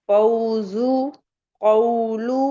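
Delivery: "फौजु कौलु" with a drawn-out au glide; slow careful model of each word; correct leen reading. Shown as a demonstration. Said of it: "पढ़ना है".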